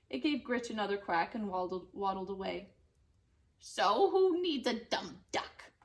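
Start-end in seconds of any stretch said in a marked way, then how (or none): 3.6-5.7 sulky mumble. Acted. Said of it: "Gritch mumbled".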